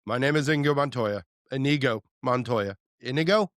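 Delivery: lightly quoting the famous duel line; a touch of Inigo Montoya, said through; half-hearted movie-quote voice. Pretend. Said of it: "can you do this all day?".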